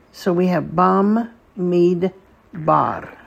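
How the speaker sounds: bam, mid, bar as three separate beats; syllable by syllable; syllables in a row. Shown as a demonstration. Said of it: "the last syllable is bar".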